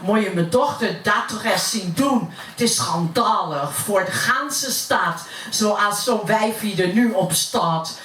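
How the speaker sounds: gossiping neighbour in Utrecht dialect; broad Utrecht accent. Acted. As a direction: recite it as Utrecht stairwell gossip. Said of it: "dat heb ik naar het Utrechts vertaald". (roddelend in plat Utrechts)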